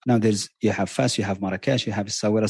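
usual speaking voice

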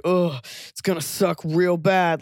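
slow, gloomy mock warning; imitating a smug downer. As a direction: drag it out like a doom-sayer.

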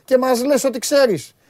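loud, slow mocking taunt; retold jab at friend. Mocking his friend the NBA expert, loud and slow. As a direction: drag it out, ribbing the know-it-all. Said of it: "Και του λέω, ρε".

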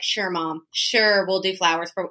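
mildly humoring daughter going along with mom; retold placating agreement, understated; half-hearted "sure" to keep mom happy; pacifying. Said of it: "I was just kinda pacifying her".

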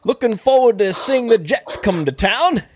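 a clumsy British caricature, put on for laughs; awful mock British accent; bad British accent. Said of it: "your British Ajayi voice".

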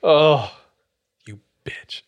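whispered mock insult. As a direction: whisper it under your breath, only joking. Mock insult, then says just kidding.

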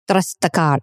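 put-on Italian accent slipping into Russian; badly faked Italian, coming out Russian; failed Italian accent. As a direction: try Italian and land on accidental Russian. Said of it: "I started to sound Russian".

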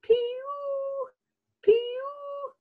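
high thin whistled pew; buzzard call. Acted. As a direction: mimic a buzzard's mewing call. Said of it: "a bird that calls".

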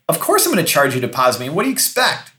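mildly incredulous, taking the deposit for granted; of-course attitude. Acted. Recruiter telling a client the deposit is expected, of-course attitude.

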